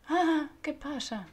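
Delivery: sudden loud yelp of surprise; real startled cry; startled shout. Real, not acted. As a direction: jump at the fright. Sudden bandid appears.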